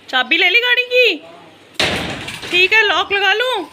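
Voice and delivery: loud high call across the house. Real, not acted. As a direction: shout it out to someone outside. Calling out to family outside.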